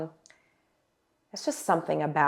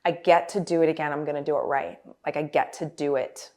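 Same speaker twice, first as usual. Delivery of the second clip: elated. Retold or imitated. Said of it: "I just kept saying".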